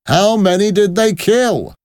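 high, loud repeated demand; insistent soldier. Acted. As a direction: repeat it forcefully as an impatient soldier. Soldier presses his question.

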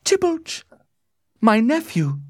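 very high woman's wail; anguished cry. A narrator's reading. Lady Capulet finds her nephew's body, crying out in anguish. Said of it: "she cried".

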